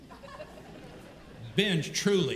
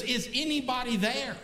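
mild, higher-pitched shout upward; 5 semitones higher than usual. Acted. Man clinging to a branch calls up, shouting. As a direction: call up for help, raised pitch. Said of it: "he shouts up".

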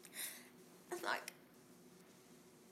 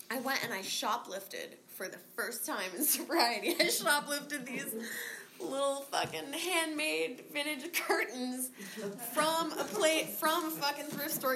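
laughing; 4 semitones higher than usual. Real, not acted. Laughing confession of shoplifting.

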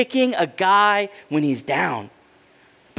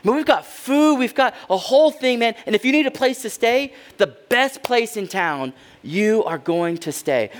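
gushing, higher host voice; eager welcome party; 3 semitones higher than usual. Retold or imitated. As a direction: overflow with flattering welcome. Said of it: "form a welcome party".

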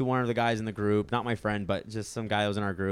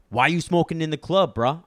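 mock-angry challenge, higher and louder; raised voice, lightly acted accusation; retold anger; 4 semitones higher, 6 dB louder than usual. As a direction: imitate an angry bouncer confronting someone. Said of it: "with so much anger".

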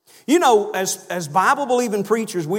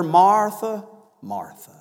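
calm reply; slower than usual. Retold or imitated. Jesus answering the upset Martha, calm and gentle. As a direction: say her name twice as a calm, considerate answer. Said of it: "his reply to her was just very calm".

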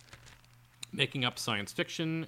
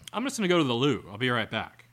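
mock British accent; 6 dB louder, faster than usual. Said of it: "putting on an affect like that".

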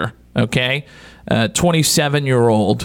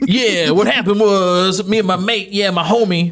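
put-on a failed, slightly higher Australian accent; one more bad go at an Australian accent; worse Australian accent; 5 semitones higher than usual. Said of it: "that one's even worse".

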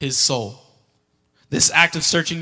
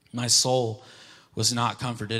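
soft emphasis; 5 semitones lower, 6 dB quieter than usual. Acted. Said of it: "repeats phrase softly for weight".

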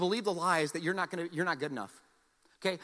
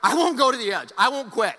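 stubborn vow; 8 dB louder than usual. Retold or imitated. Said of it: "So I'm like".

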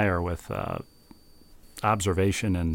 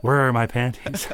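put-on old woman whispering; 3 semitones higher than usual. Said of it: "And a quiet old lady whispering".

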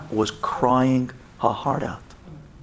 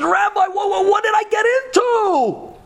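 much higher, anguished outcry; desperate cry. Retold or imitated. Leah crying out to the rabbi in desperation. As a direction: plead in panic, stammering.

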